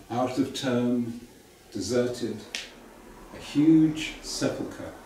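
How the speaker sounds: measured poem recital with pauses between phrases; poem reading. Acted. Poet reads a childhood holiday poem to festival audience, measured recital. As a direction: read your poem slowly, phrase by phrase.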